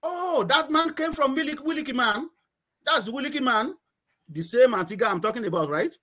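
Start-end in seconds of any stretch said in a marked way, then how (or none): 0.0-3.8 a hint of a teasing islander, pitched higher; lightly voiced villager poking fun, higher; mocking villager. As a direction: tease a neighbour about his village. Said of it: "talking to somebody from Willikis".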